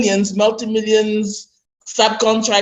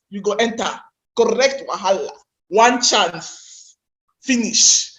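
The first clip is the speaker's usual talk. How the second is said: Nigerian pidgin. Shown as a demonstration. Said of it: "let me use my Nigerian pidgin accent".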